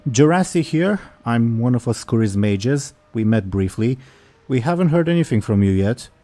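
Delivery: lightly voiced male elf; a hint of an elf mage's voice. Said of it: "you recognize this male elf voice".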